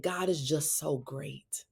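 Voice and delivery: slow, hushed whisper, barely voiced; whispered through tears. Mom retelling her crying son's words in a slow whisper. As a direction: breathe it out like an overwhelmed child. Son weeping in back seat.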